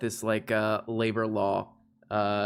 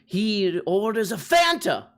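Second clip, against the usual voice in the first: pompous plea to the judge; courtroom lawyer; 3 semitones higher than usual. Pretend. Mock courtroom lawyer address.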